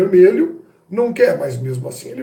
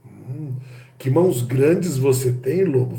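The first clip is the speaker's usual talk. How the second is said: Red Riding Hood flirting with the wolf, seductive murmur; sensual; 3 semitones lower, slower than usual. Acted. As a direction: coo it to the wolf like a temptress. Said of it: "a sensualidade que existe nessa conversa".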